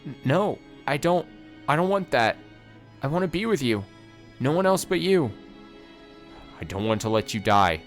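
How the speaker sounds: high, loud, breaking refusal; cling to him, refuse to let go; tearful protest. Acted. Giselle refusing to let Mikhail die for her.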